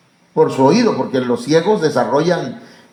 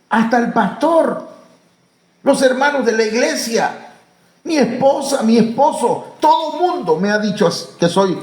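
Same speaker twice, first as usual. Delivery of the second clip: higher, half-laughing voice of someone who thinks he's worthless; self-loathing believer; 6 semitones higher than usual. Acted. Preacher voicing a scorned churchgoer, higher and half-laughing. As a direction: play the despised man mocking himself.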